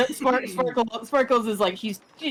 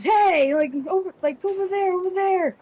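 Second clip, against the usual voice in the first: booming wood giant; 11 semitones higher than usual. Acted. Wood giant shouting to the orcs across the alley. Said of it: "just goes".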